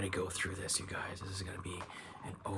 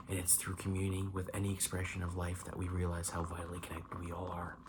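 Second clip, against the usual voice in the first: measured card-text reading; reading aloud. Real, not acted. Tarot reader reads the Eagle card to viewer, reading aloud. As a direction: read the tarot card out evenly.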